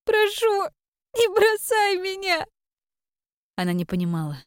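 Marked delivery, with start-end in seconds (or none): 0.0-2.5 put-on high tearful girl, slow and begging; cling to her with your voice; pleading child. A narrator's reading. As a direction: daughter begs her mother not to abandon her. Girl begs mother in tears.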